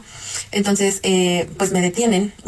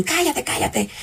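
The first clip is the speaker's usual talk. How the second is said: retold silencing order; 6 semitones higher, slower than usual. Robbers silencing her, acted out.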